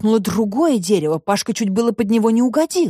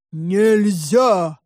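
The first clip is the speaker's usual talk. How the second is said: drawn-out monster roar. A narrator's reading. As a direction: roar it like a hidden beast. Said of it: "проревело чудовище". (рёв чудовища)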